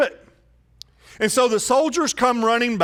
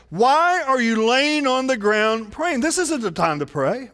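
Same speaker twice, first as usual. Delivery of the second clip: God's challenge; 5 semitones higher than usual. Acted. God rebukes Joshua.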